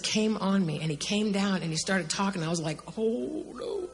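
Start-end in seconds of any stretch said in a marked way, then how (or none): 3.0-3.9 soft, higher-pitched gasped words; overwhelmed, barely getting it out; awed hush. Retold or imitated. Reacting as the Lord comes down, awed hush. Retold awe as the Lord speaks.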